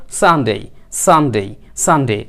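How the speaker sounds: "সানডে" as san-dei, each with a falling end; model pronunciation. Shown as a demonstration. Teacher drilling Sunday for learners, model pronunciation. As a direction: drill "সানডে" in separate, clear repeats. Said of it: "তাহলে এটাকে বলবো".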